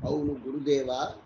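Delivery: bow your voice before the guru; humble. A narrator's reading. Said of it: "బుధుడు వినయంగా అన్నాడు".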